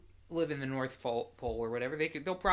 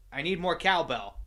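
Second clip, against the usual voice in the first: Christopher Walken impression; 2 semitones higher, 6 dB louder than usual. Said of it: "That was my Christopher Walken impression".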